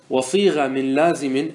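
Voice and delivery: slow chanted reading of the verse; verse recital. Shown as a demonstration. Teacher reciting a verse of the poem to students. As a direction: recite the grammar poem line slowly. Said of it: "قال الناظم".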